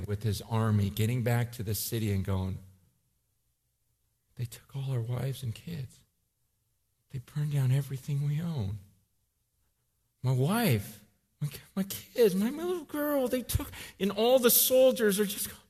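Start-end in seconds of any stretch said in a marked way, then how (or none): 4.4-13.7 grieving soldier. Retold or imitated. Soldier telling of lost wife and kids, grieving. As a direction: let it crack on my little girl.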